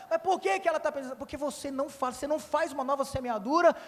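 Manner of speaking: ordinary talk, nothing marked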